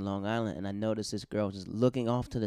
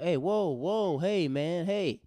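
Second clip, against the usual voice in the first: mock crowd protest; 8 semitones higher, 3 dB louder, much slower than usual. Crowd turning on mean comic.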